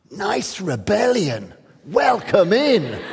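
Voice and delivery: slow, amused and patronising; condescending. Retold or imitated. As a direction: drawl it down at a young upstart. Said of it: "the art world sort of looks down and sort of goes".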